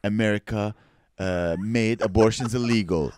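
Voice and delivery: pace it out like a movie trailer, pausing between phrases; mock trailer narrator. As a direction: pretend dramatic voiceover.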